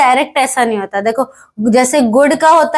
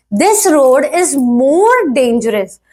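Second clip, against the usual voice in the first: slow example reading; much slower than usual. Shown as a demonstration. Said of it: "reading example slowly".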